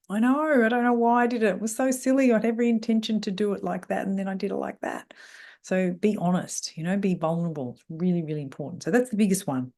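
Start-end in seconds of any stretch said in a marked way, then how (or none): 0.1-5.1 higher, self-reproachful admission; raised, candid mea culpa; owning up. Acted. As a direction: confess a silly slip, voice lifted at first and easing down. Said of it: "You say".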